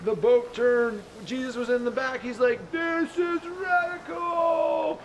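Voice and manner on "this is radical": high, slow exclaimed delight; thrilled shout. Acted. Jesus in the back of the flying boat, shouting with joy. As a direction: savor the thrill, stretch it out.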